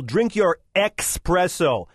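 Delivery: slow, dragged-out mock-dismissive "Drink your espresso"; rude boyfriend. Boyfriend dismissing his girlfriend, slow and drawn out. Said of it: "The guy replies".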